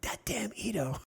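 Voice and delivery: laughing self-quote of victory; triumphant laughing. Retold or imitated. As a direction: crow it through a laugh. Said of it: "I go".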